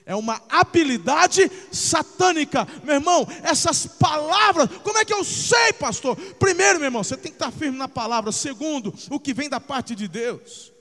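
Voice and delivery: loud, driving sermon shout; preaching at full force. Acted. Pastor thundering at his flock, full-force preaching. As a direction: hammer it home to the congregation.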